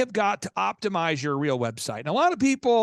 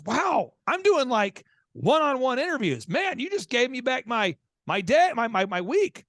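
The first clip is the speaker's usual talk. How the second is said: higher-pitched, amazed and energized; retold fired-up excitement; 6 semitones higher than usual. Client amazed he gets his week back, fired up. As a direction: imitate a guy who's suddenly fired up. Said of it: "He was so fired up".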